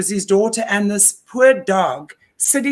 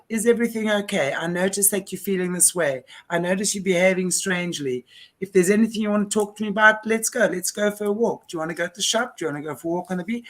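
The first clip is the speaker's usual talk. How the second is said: put-on softer, caring voice, easing a child into talking; coaxing a worried kid to open up, soft and kind; gentle reassurance; 3 dB quieter, faster than usual. Speaker gently reassuring a troubled child, softly caring.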